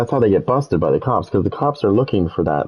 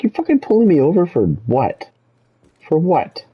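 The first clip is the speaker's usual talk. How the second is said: high, angry mock yell at the cop; angry retort; 10 semitones higher than usual. Driver yelling at the cop who pulled him over, angry and high. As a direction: snap back at him, pitched way up. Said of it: "I was pissed".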